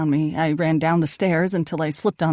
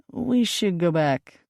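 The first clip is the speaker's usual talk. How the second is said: slow and gentle suggestion; slower than usual. Acted. Tony calming shaken Perry, gentle and slow. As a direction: soothe a shaken friend. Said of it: "Tony said gently".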